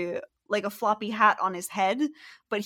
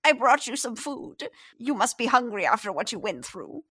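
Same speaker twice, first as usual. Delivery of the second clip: a hint of a kindly old lady, a bit higher; old woman; 4 semitones higher than usual. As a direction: offer the food gently. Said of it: "And she's like".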